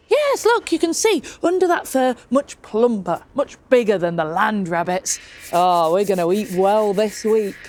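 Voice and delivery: bright burst on yes, then settling down; excited woodcarver. Acted. Woodcarver showing off the plump rabbits, mildly excited. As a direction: sell the fat rabbits eagerly.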